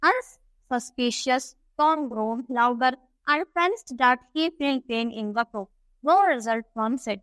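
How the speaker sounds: slow, deliberate English reading; story read-aloud. A narrator's reading. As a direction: read it out slowly for a class. (धीमे-धीमे कहानी का पाठ)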